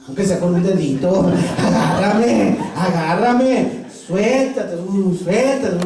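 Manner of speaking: slow, laughing begging to be grabbed; laughing plea. Acted. Hanging man begs Jesus to grab him, laughing. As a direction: beg through laughter.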